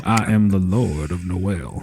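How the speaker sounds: slow Southern lord's drawl; Southern accent. Shown as a demonstration. Repeating the voice on request, slow Southern accent. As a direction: declare it grandly, drawled and Southern. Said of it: "Can you do that voice again".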